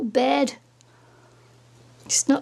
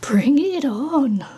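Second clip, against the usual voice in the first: drawn-out, louder declaration; slow, emphatic; 4 dB louder, much slower than usual. Real, not acted. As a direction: stretch it out like a challenge. Repeats slowly, emphatic.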